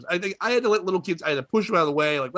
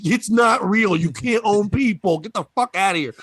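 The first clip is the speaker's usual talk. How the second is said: loud, higher retold yell at the kid; mock angry yell at a kid; 3 semitones higher, 4 dB louder than usual. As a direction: shout him off, half joking. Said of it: "I yelled at".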